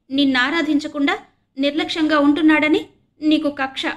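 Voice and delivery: put-on tearful boy shouting back in protest; loud crying. A narrator's reading. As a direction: cry it out loud at your sister. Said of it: "Vasu బిగ్గరగా ఏడుస్తూ అంటున్నాడు".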